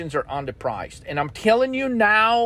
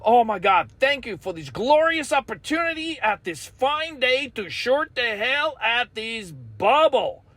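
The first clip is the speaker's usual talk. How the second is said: mock grateful trader; 4 semitones higher than usual. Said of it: "you're not looking at it as like".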